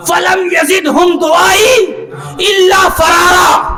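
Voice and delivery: ringing pulpit oratory with emphatic recitation; forceful preaching. Acted. Preacher recounts Noah's plea to God, forceful preaching. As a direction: declaim it to a roused congregation.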